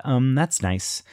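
mock-supportive, drawn-out reply; politely supportive. Friend reacting to her yelling and waving the box, politely supportive. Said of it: "my friend very supportively said".

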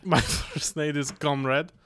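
put-on comic Russian accent. Shown as a demonstration. Guest introduces himself as the flatmate, mock Russian accent. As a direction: play a comrade in mock Russian. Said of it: "Russian accent".

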